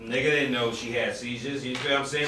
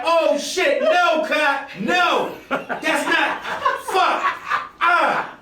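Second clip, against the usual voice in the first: panicked laughing; 12 semitones higher, 3 dB louder, much slower than usual. Retold or imitated. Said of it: "And I'm like".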